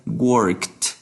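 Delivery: WORKED in one syllable ending in a crisp "t". Shown as a demonstration. Teacher explaining voiceless endings, WORKED finished on a "t" sound. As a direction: model WORKED as "workt". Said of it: "se pronuncia como T".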